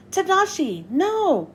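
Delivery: high, urgent cry after him; desperate cry. Acted. Hiro crying out as Tadashi runs into the fire, high and urgent. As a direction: call him back from the fire.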